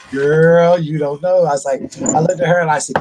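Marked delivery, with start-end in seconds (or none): 0.1-1.4 put-on loud, knowing "Girl"; sassy warning. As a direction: warn her with a wink in the voice. Telling the nurse about dad.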